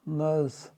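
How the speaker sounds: नर्स said "nus", no r sound; नर्स with the r dropped, long u; nurse with silent r. Shown as a demonstration. Teacher showing students नर्स with silent r. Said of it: "जिसमें आर silent है".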